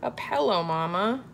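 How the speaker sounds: put-on little kid asking mama, "pillow" as pellow; cute little-kid voice. Imitating her son Lincoln talking to mama, cute little voice. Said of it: "He has the cutest little voice".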